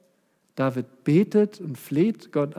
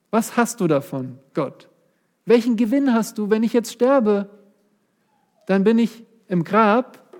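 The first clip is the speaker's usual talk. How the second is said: desperate plea; 4 semitones higher than usual. Acted. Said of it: "Er betet tatsächlich".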